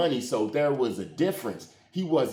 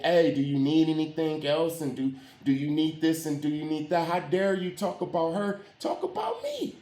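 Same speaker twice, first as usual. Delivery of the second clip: put-on girlfriend, eager to please; 3 semitones higher than usual. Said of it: "she was like".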